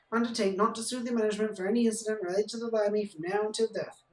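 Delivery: a hint of a pompous barman reading the rules; barman reading terms. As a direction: rattle off the legalese like a pub host. Barman reads terms and conditions.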